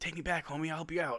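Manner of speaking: put-on whisper. Imitating a player whispering to Steph during the game: imitating D'Lo whispering. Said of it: "D'Lo whispering to Steph".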